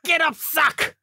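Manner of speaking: high-pitched boxing-movie hero boast; hammed-up underdog fighter, pitched well up; Rocky-style fighter bravado. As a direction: play the scrappy movie boxer, high and punchy. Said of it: "watching the Rocky movies in your time off".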